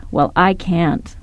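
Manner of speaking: sarcastic. Retold or imitated. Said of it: "He said again quite sarcastically".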